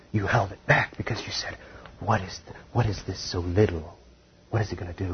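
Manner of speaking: soft, near-whispered guilt-trip preaching; lightly hushed preacher mocking a doubter. Shown as a demonstration. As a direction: drop the voice low to needle the stingy listener. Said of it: "they'll either guilt trip you".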